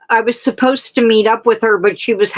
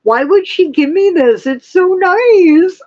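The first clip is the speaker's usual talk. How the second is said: choked up; 7 semitones higher than usual. Real, not acted. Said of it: "I'm gonna cry".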